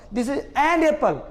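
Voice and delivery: this is an apple said slowly; slow demo. Shown as a demonstration. Teacher slowing the sentence down for students. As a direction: draw each word out. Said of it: "अब बोल रहे हैं".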